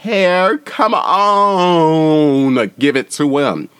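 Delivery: loud, high hype cheering; excited cheer. Retold or imitated. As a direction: hype her up from the audience. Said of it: "I was like".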